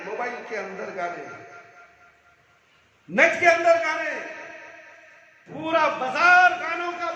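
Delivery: fiery reproach, surging and dropping away; impassioned preaching. Real, not acted. Preacher rebukes people for songs in hotels and markets, fiery preaching. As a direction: preach it hard, hammering repeated phrases. Fiery sermon scolding music listeners.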